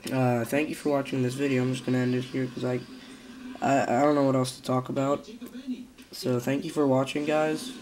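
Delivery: stuffy-nosed, sick-sounding voice; nasal voice. Real, not acted. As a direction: talk through a blocked nose from a cold. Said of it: "sorry for my nasally voice".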